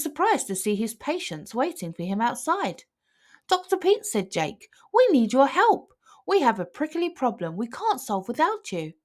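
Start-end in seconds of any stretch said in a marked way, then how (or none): 3.5-8.9 pleading snake. A narrator's reading. Jake pleading for help.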